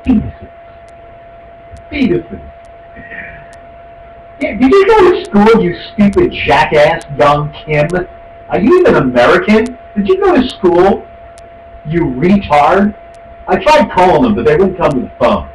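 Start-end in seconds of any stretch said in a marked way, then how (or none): 0.0-2.4 scornful quote. Real, not acted. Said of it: "I'm quoting here". 4.4-12.9 angry on-air rant. Real, not acted. Ranting insults at reporter.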